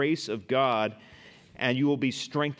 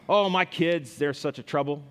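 mock exasperated sigh; 2 semitones higher than usual. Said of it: "you might say".

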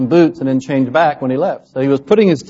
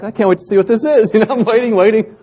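put-on childlike excitement; 7 semitones higher than usual. Child waiting to see the creature.

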